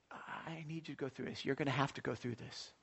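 retold softly, low and hushed; quiet divine word. Retells God's quiet word to him.

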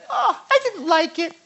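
high, loud, laughing parody; giggling mock of a flaky believer; mock dabbler laughing. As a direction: laugh through the fickle quitter's line. Mocking a casual believer.

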